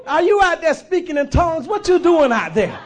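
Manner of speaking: high loud questioning; chickens asking. Acted. Chickens shout their question at the eagle. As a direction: call out puzzled to the eagle.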